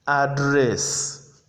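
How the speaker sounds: "Address" with the weight on its second syllable; verb pronunciation. Shown as a demonstration. Teacher repeats the verb for students, second-syllable stress on "Address". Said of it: "you can hear the difference".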